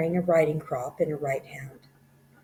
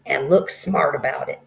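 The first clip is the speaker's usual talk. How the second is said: shouted order; 8 dB louder than usual. Acted. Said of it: "the Trunchbull shouted".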